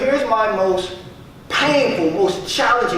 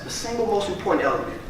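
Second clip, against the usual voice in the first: quiet hurried restatement for emphasis; softer, faster repeat; 7 dB quieter, faster than usual. Shown as a demonstration. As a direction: echo it back softer and quicker. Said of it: "most important element to your overall success".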